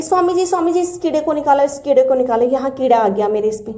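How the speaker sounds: pleading for the insect to be pulled off; retold frightened calling out. Woman retelling waking in fright, calling Swami ji to remove the insect. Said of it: "ज़ोर ज़ोर से चिल्ला रही थी कि".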